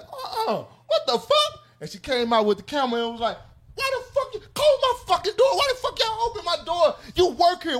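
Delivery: high, shrill-pitched mock outrage; mocking angry woman. Girl yelling at the car wash workers, high mock outrage. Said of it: "She was like".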